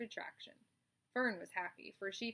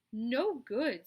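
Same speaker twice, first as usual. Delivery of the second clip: high, loud dismissal; flat refusal; 4 semitones higher, 10 dB louder than usual. Acted. Charlotte rejects the lamb's slogan, loud. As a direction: shoot it down.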